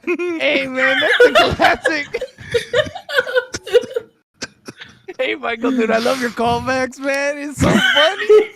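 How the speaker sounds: high, drawn-out gushing dude voice; goofy movie dude. Acted. Friend riffs a better movie scene, high goofy voice. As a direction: gush like a goofy, overexcited buddy.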